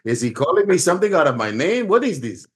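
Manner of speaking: lightly voiced indignant bafflement, rising high; hammed-up offended confusion; mock confused outrage. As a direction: play him baffled and half offended. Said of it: "and he's like".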